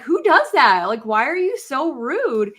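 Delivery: high, loud indignant outburst; re-enacted angry retort; retold anger. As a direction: fire it back, outraged.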